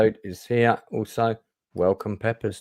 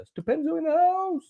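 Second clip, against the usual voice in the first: mock announcer intro. Host bringing on his regular co-host, mock announcer intro. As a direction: draw out the name like a hype man.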